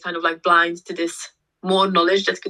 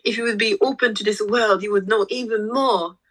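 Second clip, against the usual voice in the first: lightly voiced eager enthusiasm, higher; excited pitch; 4 semitones higher than usual. Telling her friend's partner about chakras, eagerly. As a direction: gush it out like big news. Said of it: "was so excited to tell him".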